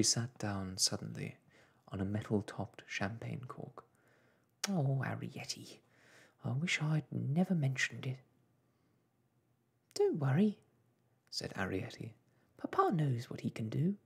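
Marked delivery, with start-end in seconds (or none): 4.7-8.2 lightly voiced worried mother, higher; a mother regretting she spoke; fretful mother. Mother to Arrietty about Papa, fretful. 9.9-14.0 put-on higher young daughter's voice; reassuring daughter. Daughter reassures mother about Papa, higher and confident.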